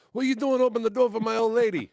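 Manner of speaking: high, loud imitated yell; imitating the angry boyfriend, high and loud; mock angry yell. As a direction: bark it like the jealous boyfriend. Retold angry man's challenge.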